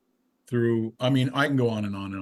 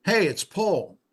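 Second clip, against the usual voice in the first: higher-pitched imitation British accent; 8 semitones higher, 4 dB louder, slower than usual. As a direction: put on a British accent for the caller. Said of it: "with a British accent".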